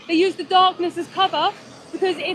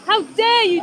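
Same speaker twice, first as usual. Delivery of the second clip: loud furious shouting, slow and heavy; shaking with anger; 2 semitones higher, 6 dB louder, slower than usual. Real, not acted. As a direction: yell it at him, full of disgust. Confronting the farmer at the slaughterhouse.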